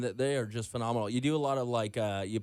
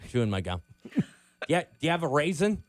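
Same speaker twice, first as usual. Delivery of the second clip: sleazy pickup line; 3 dB louder than usual. Pretend. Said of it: "throw you a cheesy pickup line".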